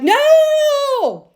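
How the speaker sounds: sudden high shout of no; screaming no. Retold or imitated. Charlotte yelling at Che to defend Miranda, high sudden shout. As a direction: shriek no in outrage, leaping to a friend's defence. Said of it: "started screaming".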